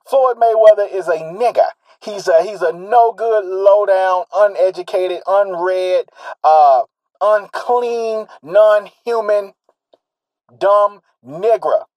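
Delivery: mock the bigots' contempt, slowing down; imitating racists. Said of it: "This is not Cobra saying, this is how they think of him".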